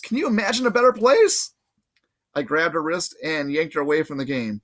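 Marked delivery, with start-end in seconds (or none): 0.0-1.5 put-on dreamy girl voice. Annabeth dazed reply.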